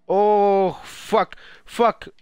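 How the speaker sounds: startled swearing. Real, not acted. Sudden hit in game.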